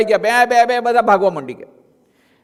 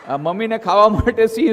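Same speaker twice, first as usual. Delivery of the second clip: ordinary talk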